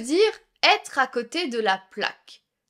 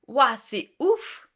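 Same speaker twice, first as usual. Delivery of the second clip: amazed wow; much slower than usual. Acted. Acted amazed reaction.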